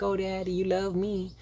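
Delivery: put-on relieved kid gushing at his dad; childlike son. Son voiced thanking his father.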